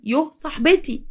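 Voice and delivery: indignant mimicking echo; mock echo. Mother scornfully echoes daughter's words.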